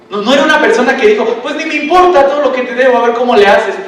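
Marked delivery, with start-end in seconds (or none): 1.4-3.8 careless shrug. Retold or imitated. Careless debtor voiced.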